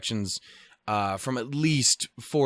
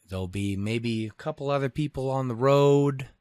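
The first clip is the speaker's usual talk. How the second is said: bored local. Retold or imitated. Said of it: "everyone's like".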